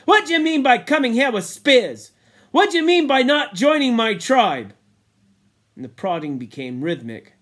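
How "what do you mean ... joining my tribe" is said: louder, hammering questions on what; fierce interrogation. Acted. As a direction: press him fiercely, stressing what. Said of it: "said the chief fiercely".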